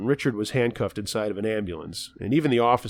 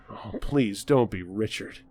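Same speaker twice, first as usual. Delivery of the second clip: dread; 2 semitones lower, slower than usual. Acted. Narrator dreading Richard's arrival.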